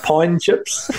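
imitated Australian "pine chips", "pie and" run together; Australian accent. Imitating associate's wife offering food, Australian accent on "pine chips". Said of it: "said it in an Australian accent".

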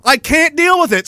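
rising irritation, pitch climbing; real frustration building to a rant; annoyed. Real, not acted. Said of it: "I'm getting really fucking annoyed".

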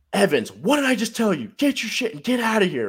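imitating the coach ordering him out. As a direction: bark it like an impatient coach, hammed up.

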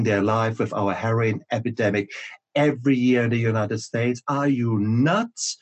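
hammed-up panic at her daughter; mock freak-out. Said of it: "And Mum just loses it".

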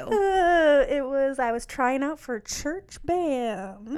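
laughing through the memory, slowing down. Real, not acted. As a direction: giggle out an embarrassing confession. Laughing while recalling embarrassing audition.

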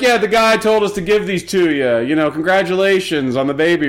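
hint of delivery-man mobsters; mob delivery guys. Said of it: "They're like".

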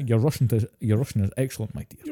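light Scottish brogue, fading off; a hint of Connery's Scottish lilt; Sean Connery impression. Friend quoting Sean Connery from The Hunt for Red October, lightly Scottish. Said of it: "he says it like this".

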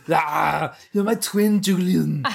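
Schwarzenegger impression. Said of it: "He was like the governor".

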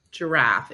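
"Giraffe" with a separate first syllable; corrective, two-beat "Giraffe"; correcting pronunciation. Shown as a demonstration. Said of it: "It sounds like he's saying draft story".

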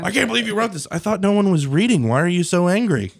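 squeaky, high, loud panicked whine; silly clown. Retold or imitated. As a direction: whine like a caught-out politician. Mimicking panicked legislators.

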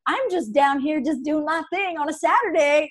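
high, loud feigned confusion; mock playing dumb. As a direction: pretend you can't hear him. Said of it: "you're like".

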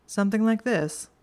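smug and pleased with himself; a smirking show-off. A narrator's reading. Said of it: "Draco smirked and looked smug".

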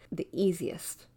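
the easiest, breathed as a whisper; whispered emphasis. Shown as a demonstration. Teacher stressing her key decorating tip, whispered.

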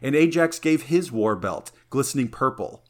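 measured epic verse reading; reading a poem. Acted. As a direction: read it like an old epic. Reads Iliad translation aloud.

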